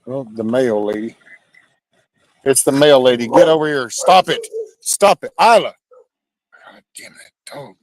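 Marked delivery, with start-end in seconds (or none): 2.4-3.3 higher, louder excited call; talking it up to the dog. Real, not acted. Dogs spot the mail lady. 3.3-5.7 yelling at dog. Real, not acted. Calling off barking dog.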